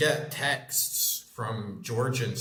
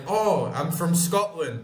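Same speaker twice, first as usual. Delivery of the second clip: slow, higher explanation; 5 semitones higher, 4 dB louder than usual. Retold or imitated. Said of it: "you're like".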